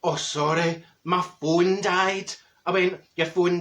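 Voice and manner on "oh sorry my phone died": fake apology. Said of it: "I love the one".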